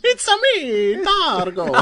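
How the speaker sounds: very high, slow sing-out, loud; hammed-up high cartoon voice; cartoon catchphrase parody. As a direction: squeal it out like a game mascot introducing himself. Mario catchphrase parody while laughing.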